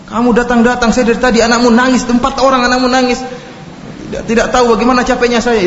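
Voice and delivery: tired wife lashing out at her husband; angry wife. Retold or imitated. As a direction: vent like a worn-out wife who has had enough. Istri marah.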